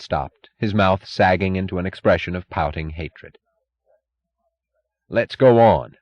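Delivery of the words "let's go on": feverish urging, a bit louder; feverishly. A narrator's reading. Taggart pushing the meeting on, feverish. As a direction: hurry them on, feverish. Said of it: "said Taggart feverishly".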